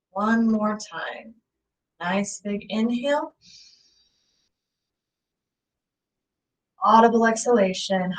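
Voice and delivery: lightly held meditation voice with long pauses; guided meditation. Acted. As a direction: guide listeners calmly through each breath. Leads a guided breathing meditation.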